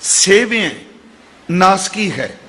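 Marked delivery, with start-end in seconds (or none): 0.0-0.7 ਸੇਵਿਐ with a short i after ਵ; careful correct pronunciation. Shown as a demonstration. Preacher spelling out the word, careful short-i ਸੇਵਿਐ. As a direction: set ਸੇਵਿਐ apart, short middle vowel. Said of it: "ਵਾਵੇ ਨੂੰ ਸਿਹਾਰੀ ਏ".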